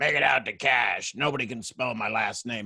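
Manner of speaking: low, gravelly voice. Speaker recounts a man's reply when his mom asked who to make it out to, imitating a gravelly voice. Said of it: "he had this gravelly voice".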